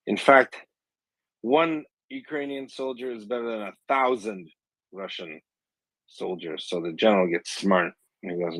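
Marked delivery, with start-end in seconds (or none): 0.1-6.7 high-pitched call sinking away at the end; mock yell. Joke teller as a Ukrainian taunting the Russian general, mock yell. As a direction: imitate a taunting shout without much volume. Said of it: "the Ukrainian voice yells out again".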